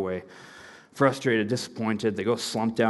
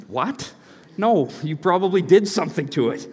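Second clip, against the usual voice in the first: laughing suspicion; 5 semitones higher than usual. Real, not acted. Youth pastor laughing about kids handing him food, laughing.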